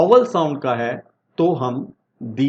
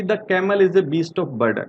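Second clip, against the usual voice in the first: slow example read; 2 semitones higher, much slower than usual. Shown as a demonstration. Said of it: "जैसे कि".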